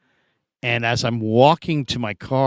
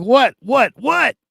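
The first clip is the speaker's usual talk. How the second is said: high, louder, rising each time; startled; 12 semitones higher, 5 dB louder, slower than usual. Retold or imitated. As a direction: sputter in shock. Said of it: "I'm like".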